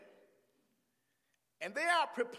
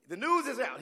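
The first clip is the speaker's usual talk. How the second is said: raised, emphatic announcement; proclaiming; 5 semitones higher, 9 dB louder than usual. Real, not acted. Preacher heralding the news to the congregation, proclaiming. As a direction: proclaim it out to the room. Same words repeated as a proclamation.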